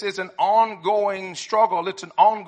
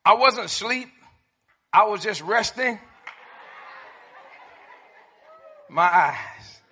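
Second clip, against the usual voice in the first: booming tipsy uncle; 3 dB louder than usual. Retold or imitated. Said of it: "How about this one?".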